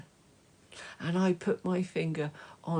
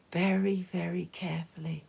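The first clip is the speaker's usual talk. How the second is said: careful whisper; faster than usual. Acted. Holding baby sister carefully.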